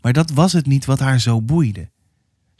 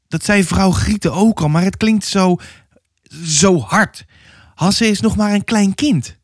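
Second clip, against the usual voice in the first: higher-pitched, hesitant objection; worried mother; 6 semitones higher than usual. Acted. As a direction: plead for the child, faltering. (bezorgde moeder, hoger en aarzelend)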